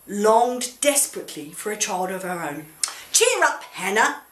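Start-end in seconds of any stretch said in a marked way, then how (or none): 3.1-4.2 hammed-up husband voice, pitched much higher and louder; husband cheering her up. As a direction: coax her brightly, like a doting husband. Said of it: "Elkanah would say".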